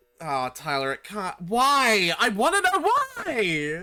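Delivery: shouting. Demanding an answer from Tyler during a game: yelling. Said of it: "Stop yelling at me!".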